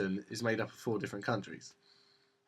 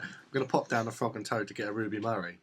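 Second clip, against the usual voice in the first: Cockney. Shown as a demonstration.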